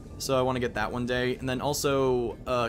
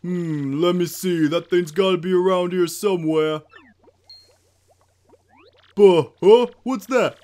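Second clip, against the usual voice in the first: higher, louder cartoon villain voice; slow theatrical villain menace; 6 semitones higher, 9 dB louder, slower than usual. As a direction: ham up the gloating villain. Voices villain in game dialogue.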